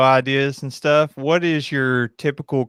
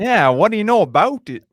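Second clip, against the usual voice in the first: playful put-on Canadian accent, pitched up; mock Canadian accent; 5 semitones higher than usual. Kentuckian answering the host's teasing, mock Canadian accent. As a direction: imitate a Canadian, talking back cheekily. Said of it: "trying to talk like they're Canadian".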